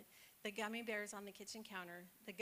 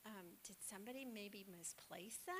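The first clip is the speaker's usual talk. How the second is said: gentle coaxing; 3 dB quieter than usual. Retold or imitated. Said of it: "she just coaxed him along".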